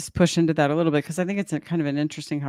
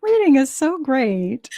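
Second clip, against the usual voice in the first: mock condescension; 9 semitones higher, 4 dB louder, slower than usual. Listener mocks patronizing men.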